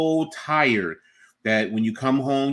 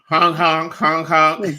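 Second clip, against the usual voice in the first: silly clown; 4 semitones higher, 6 dB louder, slower than usual. Pretend. Silly honking bit.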